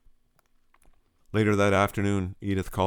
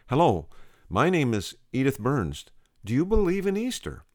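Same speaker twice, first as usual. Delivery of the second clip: cheerful Edith; 6 semitones higher than usual. Acted. Edith greeting strangers cheerfully.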